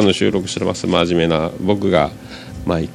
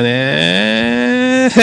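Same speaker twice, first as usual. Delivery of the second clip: high stretched voice. Acted. Praising the jingle in a high voice.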